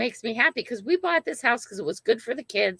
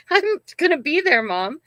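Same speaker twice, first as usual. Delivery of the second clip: laughing retort; 7 semitones higher, 6 dB louder than usual. Retold or imitated.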